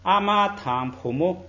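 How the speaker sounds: teacher reads the phrase slowly, syllable by syllable; slow model reading. Shown as a demonstration. Teacher modelling for the class, slow careful reading. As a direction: say it slowly for students to copy. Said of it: "这个和也是个虚词".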